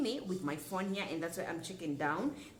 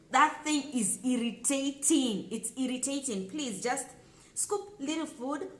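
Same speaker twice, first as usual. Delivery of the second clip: exasperated scold; 5 semitones higher than usual. Real, not acted. Vlogger scolding guests who stuff their mouths, exasperated. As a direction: drag it out in real annoyance. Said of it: "scolding irritation".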